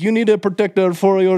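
hammed-up Arab accent, high and loud; pushy kiosk seller with an Arab accent. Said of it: "heavy Arab accent".

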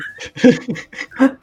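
high laugh. Real, not acted. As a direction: breaks into a laugh. Joking about the Sprite mascot.

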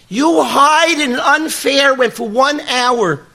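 mock the boy's hurt accusation, not a real yell; the boy's upset complaint at God, retold. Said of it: "He starts screaming and yelling and getting upset at Hashem".

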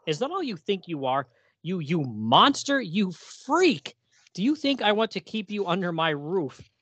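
a hint of a scornful father spitting out insults; angry father. Reading the father's cruel words to his son, mildly angry. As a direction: berate him as a monster, rising on freak.

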